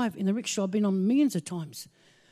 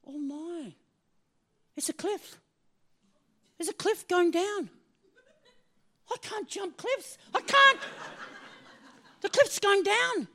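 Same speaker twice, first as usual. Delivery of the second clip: higher, breathless panic at the cliff; panicked thought; 7 semitones higher than usual. Retold or imitated. Facing the cliff she can't jump, higher frightened panic. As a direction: gasp out fear of the drop. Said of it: "And I thought".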